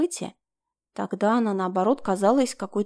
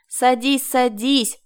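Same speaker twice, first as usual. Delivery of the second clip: hurrying; 3 semitones higher, 4 dB louder, much slower than usual. A narrator's reading. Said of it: "торопила меня Марина".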